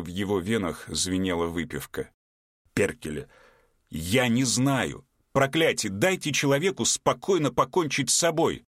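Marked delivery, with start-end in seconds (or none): 2.7-8.6 put-on rising, desperate drunk shout; drunken outburst. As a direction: cry out, drunk and fed up. Drunk man yells in despair.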